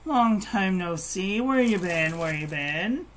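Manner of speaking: drawn-out, high, loud hello easing down; delighted greeting. Real, not acted. Streamer welcoming a friend who just came in, delighted. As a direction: greet a long-missed friend with stretched-out delight.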